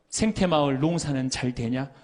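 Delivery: lightly voiced friend asking by phone; casual phone check-in, lightly acted; friend's routine call. Priest imitates his classmate calling from Rome, lightly voiced. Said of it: "한 달에 세 번 어김없이 전화하는 거예요".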